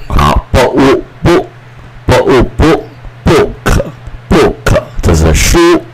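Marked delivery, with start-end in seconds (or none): 1.2-4.8 slow sounding out. Shown as a demonstration. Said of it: "teacher sounds out book".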